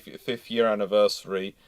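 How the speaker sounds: normal talking voice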